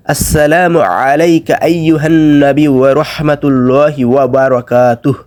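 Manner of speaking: slow, melodic Arabic recitation; careful recitation. Shown as a demonstration. Teacher reciting the second line, slow recitation. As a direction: hold the long vowels evenly.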